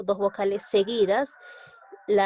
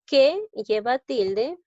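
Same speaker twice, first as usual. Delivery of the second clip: slow, louder emphatic delivery of Que lleva tilde; 3 semitones higher, 5 dB louder, slower than usual. Shown as a demonstration. Teacher shows students the emphatic tone, slow and louder. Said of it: "está expresado en un tono enfático".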